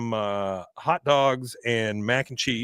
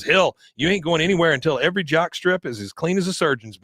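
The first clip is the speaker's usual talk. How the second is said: higher-pitched imitation of a coach calling out; mild mock yell; 5 semitones higher than usual. Recapper plays coach ordering Bobby to stay, mildly yelled. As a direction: call an order across the field, half-heartedly. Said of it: "he yells over to Bobby".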